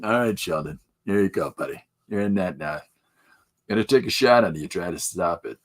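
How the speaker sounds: lightly nasal, apathetic coach voice; a hint of a bored, nasal coach; H. Jon Benjamin coach. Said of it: "that nasally voice".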